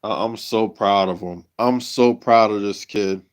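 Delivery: real joy, subdued and nearly lost for words; emotional, overjoyed. Real, not acted. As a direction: overcome with pride, pausing to sigh and gather yourself. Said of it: "I'm so emotional right now".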